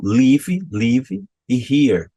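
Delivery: put-on "live" as "livi", Brazilian accent. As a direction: slowly show the Brazilian-accented extra vowel in "live". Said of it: "é uma questão".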